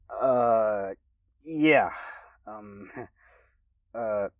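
flat, awkward monotone thanks. Acted. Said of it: "I stated simply in a monotone voice".

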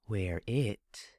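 a hint of a whisper from down the hall. A narrator's reading. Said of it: "a voice whispered down the hallway".

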